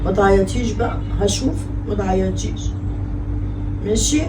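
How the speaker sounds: soft, tearful pleading to a crying daughter. Acted. Mother on the phone with her crying daughter, tearful and soft. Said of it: "خليتيني أعيط يا شهد".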